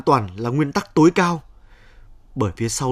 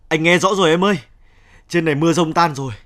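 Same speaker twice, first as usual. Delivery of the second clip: loud phone call; 5 semitones higher, 5 dB louder than usual. Acted. Shouting over phone to wife.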